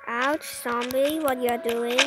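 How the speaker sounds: hurt and annoyed at the zombie; indignant yell. Real, not acted. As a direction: tell the zombie off. Scolding the zombie hitting him.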